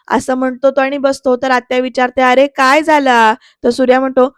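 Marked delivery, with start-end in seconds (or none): 2.2-3.3 worried. Retold or imitated. Aunt worried by the joke.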